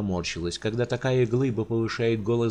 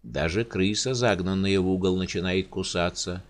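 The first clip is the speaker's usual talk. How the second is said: sighing giant; 3 semitones lower than usual. Acted. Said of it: "вздохнул Рауль".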